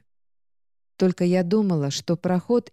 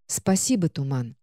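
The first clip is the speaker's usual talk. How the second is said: lifeless voice; 4 semitones lower than usual. Acted. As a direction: say it with nothing left inside. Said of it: "безжизненным даже для меня голосом".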